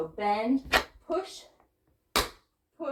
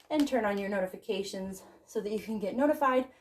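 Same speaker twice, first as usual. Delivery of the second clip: out of breath. Real, not acted. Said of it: "sorry, I'm out of breath".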